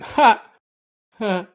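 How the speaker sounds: high loud laugh, two sharp ha's; two bursts of real laughter. Real, not acted. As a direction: let out a big loud laugh. Laughs at the joke.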